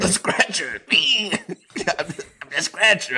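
giggling in a mock spooky voice; laughing ghost voice. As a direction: cackle as the scratcher.

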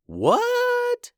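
high squeaky startled what; surprised what. Pretend. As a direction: yelp it in shock. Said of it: "Momo and the others would be like".

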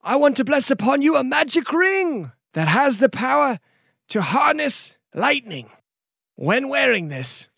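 high, courtly gift speech; formal noble lord. Acted. Noble gives the hero a ring, courtly. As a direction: bestow the ring with ceremony.

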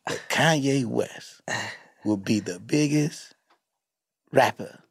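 low, slow storyteller voice of the documentarian; lightly voiced solemn narrator; a hint of a grand documentary telling; impression of Coodie. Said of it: "'Cause he was like".

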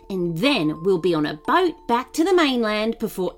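stern. Acted. Robber gives orders.

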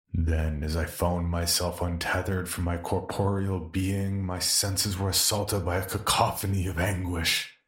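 slow, grand storybook phrasing; lightly mock a florid horror narrator; pompous literary narration. Mocking how survivors describe horrors, slow and grand. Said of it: "I wouldn't say".

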